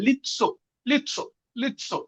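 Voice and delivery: লিৎসো repeated with a "t" sound before the "so"; pronunciation demo. Shown as a demonstration. Teacher drilling the t-like sound for students, লিৎসো as "lit-so". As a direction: say লিৎসো as "lit-so", separately each time. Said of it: "তীর মতন উচ্চারণ হবে".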